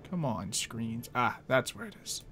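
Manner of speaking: ordinary talk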